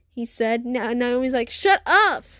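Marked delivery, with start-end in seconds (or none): 1.5-2.2 angry snap. Acted. Naomi snaps at the boys.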